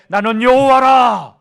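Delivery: slow, loud solemn proclamation; God's declaration. Acted. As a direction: declare it slowly with full weight. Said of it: "자신을 계시하실 때". (하나님이 이스라엘에게 천천히 크게 선포하듯)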